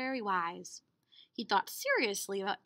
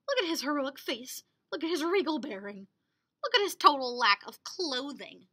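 demanding; 2 semitones higher, 4 dB louder than usual. Acted. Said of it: "they demanded".

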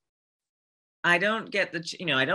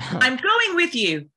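high, slow, insistent call; determined character line; 8 semitones higher, 4 dB louder, slower than usual. Acted. Performing a game character's lines.

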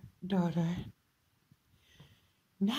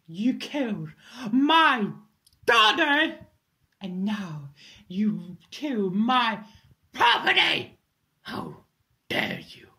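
rising fury; 4 dB louder than usual. Acted. Raging at Ethan over her daughter.

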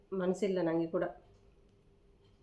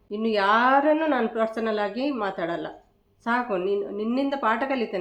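loud declaration; 4 dB louder than usual. Real, not acted. Vowing never to trust again.

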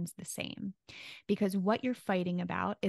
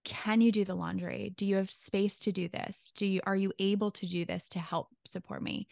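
considerate request. Shown as a demonstration. Partner asking for help with laundry, considerate. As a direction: ask gently, giving them space to say no. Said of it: "just listen to the smallest shift".

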